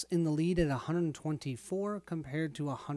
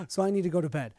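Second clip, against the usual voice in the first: laughing; 3 semitones higher, 5 dB louder, much faster than usual. Real, not acted. Laughing at the late hour.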